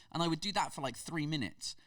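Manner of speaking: ordinary delivery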